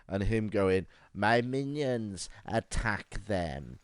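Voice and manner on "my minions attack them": slow, drawn-out mock evil command; lightly voiced mad doctor ordering minions; hammed-up villain. Mad doctor ordering his minions, slow hammed-up villain.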